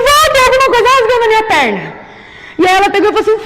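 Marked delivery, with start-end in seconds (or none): 0.1-2.0 acted alarm. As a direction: panicky cry to grandmother, re-enacted. Acted panicked cry to grandmother. (apelo aflito à avó, encenado)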